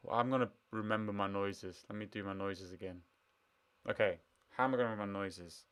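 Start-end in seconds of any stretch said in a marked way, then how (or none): none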